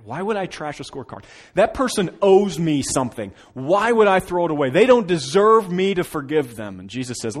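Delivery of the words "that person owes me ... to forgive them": louder, higher indignant protest; loud, aggrieved self-justification; indignant grudge. Retold or imitated. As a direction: insist they owe you, aggrieved. Voicing an indignant grudge-holder.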